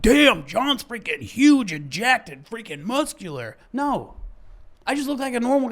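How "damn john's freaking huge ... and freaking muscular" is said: mock awed viewer. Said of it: "you click on a video of mine and you're like".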